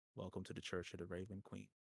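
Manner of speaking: hushed, very quiet, low, level monotone. A man who seems in charge comes down to greet a visitor: monotone voice. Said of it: "like in a monotone voice".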